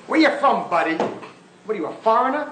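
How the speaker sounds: a hint of a bullying radio host; radio host taunt. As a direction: sneer at the caller like a brash host. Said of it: "he has just told off some Spanish guy".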